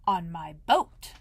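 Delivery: slow, proud and pleased with himself; proudly. Acted. Pooh telling Christopher Robin how he came, slow and proud. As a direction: puff up and say it slowly. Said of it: "said Pooh proudly".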